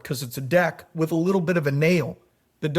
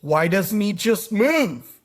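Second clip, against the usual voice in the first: higher, drawn-out question; puzzled neighbor; 4 semitones higher, slower than usual. Retold or imitated. Neighbor asking farmer about his dog, puzzled. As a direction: ask slowly, stretching the last word. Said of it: "The neighbor says".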